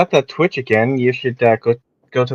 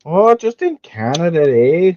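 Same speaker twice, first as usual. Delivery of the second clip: hammed-up Canadian accent; bad Canadian accent, eh; 4 semitones higher, slower than usual. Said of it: "My most terrible Canadian accent".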